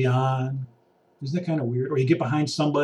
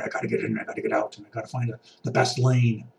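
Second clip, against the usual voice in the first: frantic shopper voice; 4 semitones lower, 3 dB quieter than usual. Retold or imitated. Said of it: "They're on a mission from God".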